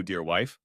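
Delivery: lightly stressed "wife" with a rising end. A narrator's reading. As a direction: lift the end of "wife" for pointed emphasis. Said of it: "putting emphasis on the word wife".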